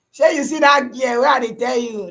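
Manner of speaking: calling out. Real, not acted. Calling out to his viewer.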